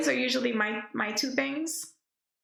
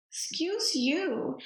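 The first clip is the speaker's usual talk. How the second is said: slow, higher mock-offended excuse; telling off the puppy, slow and playful; drawn-out mock offense; 4 semitones higher, much slower than usual. Real, not acted. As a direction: stretch it out, playfully scandalized. Repeats scolding to the dog.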